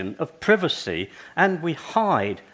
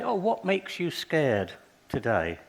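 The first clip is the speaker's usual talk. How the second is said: put-on soft and slow, coaxing a small child; slow soft teacher voice for a toddler; gentle question to child; 6 dB quieter, slower than usual. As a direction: ask it kindly, slowly, softer.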